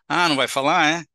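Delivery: scornful mock question; ironic. Shown as a demonstration. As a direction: needle him with irony. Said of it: "Isso é ironia".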